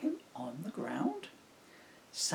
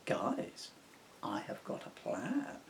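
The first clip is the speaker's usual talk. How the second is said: excited whisper; 5 semitones higher, 5 dB quieter than usual. Acted. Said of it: "somewhat excitedly".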